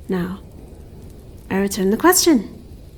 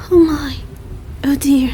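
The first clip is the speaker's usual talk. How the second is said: whisper; 5 semitones higher, 3 dB louder than usual. Acted. Creature finds a freezing human.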